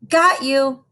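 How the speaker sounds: hammed-up giant grab; giant growl. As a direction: pounce on it like a playful giant. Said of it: "the giant growled".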